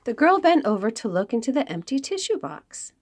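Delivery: lively storybook read-aloud; reading to children. Acted. Librarian reads a picture book to the children, lively storytelling.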